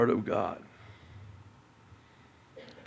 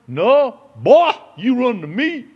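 loud, high call from a running father; 12 semitones higher, 13 dB louder than usual. Acted. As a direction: shout it like a father running to his boy. Father voiced calling to son.

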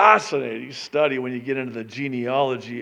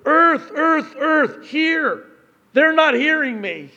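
loud, much higher pleading call to the earth; God calling out; 11 dB louder, slower than usual. Acted. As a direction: cry out to the earth as God, desperate to be heard.

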